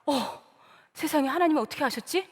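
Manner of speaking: mildly startled, quick murmur to oneself. Acted. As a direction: act a touch of astonishment, hurried. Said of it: "너무나 놀랐습니다". (살짝 놀란 혼잣말)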